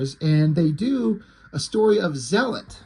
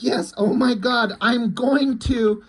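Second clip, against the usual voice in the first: higher and slow, stretched mock moan; slow, higher hammed-up ecstatic cry; drawn-out mock ecstasy; 6 semitones higher, slower than usual. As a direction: stretch every word like she's peaking. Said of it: "So she's like".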